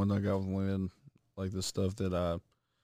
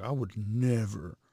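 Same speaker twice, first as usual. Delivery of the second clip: put-on prim girlfriend. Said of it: "She was like".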